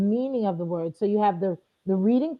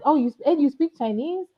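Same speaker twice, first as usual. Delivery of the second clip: surprised tourist; 6 semitones higher than usual. Retold or imitated. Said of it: "they forget".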